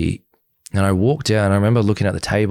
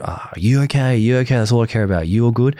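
mildly urgent, raised-pitch check-in; insistent checking; 4 semitones higher than usual. Retold or imitated. Asking the crying partner if she's okay, insistent retold concern. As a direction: press with the same question, as retold.

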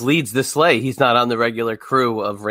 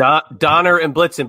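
slow, slightly louder mock Austrian accent; a light Austrian accent, Arnold-style; hint of Austrian accent, drawn out slowly; Arnold's Austrian accent; 3 semitones higher, 4 dB louder than usual. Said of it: "you gotta say it like Arnold in Jingle All the Way".

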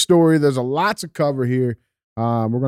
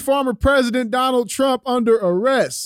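headline read; 11 semitones higher than usual. Acted. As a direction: announce it like breaking news. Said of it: "reads the headline".

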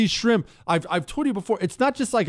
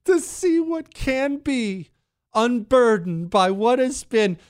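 slow, drawn-out parody of a pompous orator, pitched higher; mock lofty speech; 7 semitones higher, slower than usual. Host parodying the vice president's speech, in a slow mock-grand voice. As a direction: ham up the grand phrasing, slowly. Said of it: "Who talks like that?".

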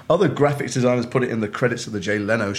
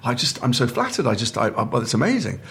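mortified; 3 semitones higher than usual. Retold or imitated. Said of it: "I was so mortified".

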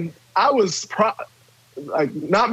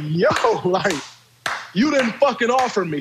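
mock yell back; 3 semitones higher than usual. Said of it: "we're having a screaming match".

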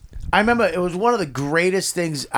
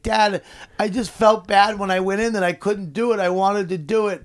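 put-on upset kid; 5 semitones higher than usual. Retells crying son's words to dad.

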